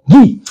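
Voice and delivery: "GUI" with a hard g. Shown as a demonstration. Teacher giving the sound of J, hard g "GUI". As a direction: say "GUI" as "ghee", set apart. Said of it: "et le J a le son".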